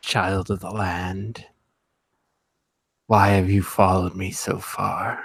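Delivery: low, horrible, eerie, otherworldly monster voice. Game master voicing a creature speaking into a player's head, horrible voice in your head. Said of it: "that horrible voice without voice in your head".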